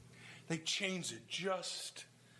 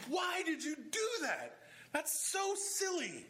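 higher, slow, chuckling through a playful scold; laughing mock scolding; 8 semitones higher, slower than usual. Pastor imitating his own anger, laughing and higher. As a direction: tease the way you'd scold a child, laughing. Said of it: "at times I get angry".

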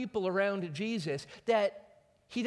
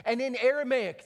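normal talking voice

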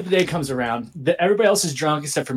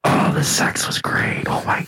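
hammed-up unvoiced rapture; whispered gushing. Confessing to the hosts why he stayed, whispered gushing. Gushing about sex with his ex.

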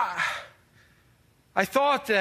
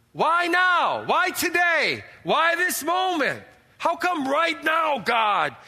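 anguished pleading cry; 5 semitones higher, slower than usual. Acted. Pleading outburst at God.

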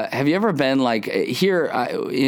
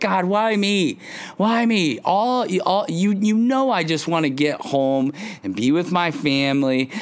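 much higher, hammed-up whine; mock whining; 7 semitones higher than usual. Delayed traveler complains to God, high hammed-up whine. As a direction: wail it up high like a sulking kid. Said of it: "throwing your hands in the air".

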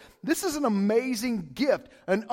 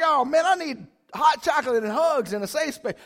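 a hint of a whiny, rattled loser; lightly voiced wail for comfort; mock upset voter; 4 semitones higher, 5 dB louder than usual. Pastor mocking election losers, mock whiny plea. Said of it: "some people are like".

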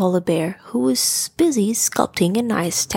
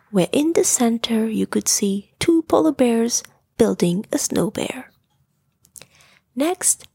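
whispered story narration. A narrator's reading. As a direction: whisper the story like tucking a child in.

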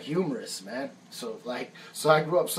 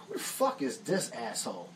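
muttered aside; 4 semitones lower, 8 dB quieter than usual. Retold or imitated. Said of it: "I said".

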